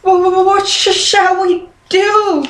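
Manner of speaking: high, stuttering scared cub; frightened little sister crying out; stammering fright. A narrator's reading. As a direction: stammer out the fear. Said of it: "cried Sister Bear".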